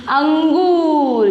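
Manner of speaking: अंगूर stretched slowly, full ng; correct reading, nasal held. Shown as a demonstration. Teacher drills pupils, अंगूर with long nasal. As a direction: draw out अंगूर with the anusvar ringing. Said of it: "क्या पढ़ना है?".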